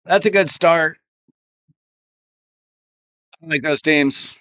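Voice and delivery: hoarse, worn-out voice; losing voice. Real, not acted. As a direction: voice giving out, hoarse. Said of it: "I'm losing my voice".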